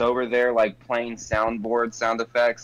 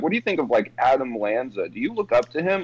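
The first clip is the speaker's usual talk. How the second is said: imitating Jimmer questioning kids; faster than usual. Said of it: "was being like".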